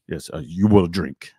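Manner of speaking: insistent mock Italian host; bad Italian accent. Owner overruling the non-drinking guest, mock Italian accent. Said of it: "this is gonna be a horrible accent".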